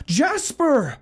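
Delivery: high, loud call into the woods. Acted. Simon calling his dog while stumbling through the woods, high loud call. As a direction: call the name out into the dark. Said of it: "he called".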